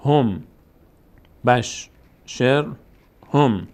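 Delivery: بشر stretched very slowly, each sound drawn out; syllable-by-syllable reading. Shown as a demonstration. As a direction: drag بشر out slowly for the class. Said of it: "باز شین میچسبه به را". («بشر» خیلی کشیده و آهسته، هجا به هجا)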